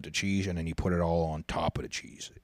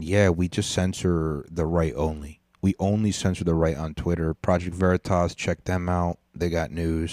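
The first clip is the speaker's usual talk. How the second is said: louder mock Yusef accent; hammed-up Yusef accent read; 4 dB louder than usual. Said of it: "Sorry, I'm switched back to the Yusef accent".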